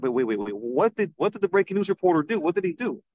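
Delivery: imitating baffled deputies; halting start, then puzzled questioning; mildly acted bewilderment; retold confusion. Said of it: "are all confused".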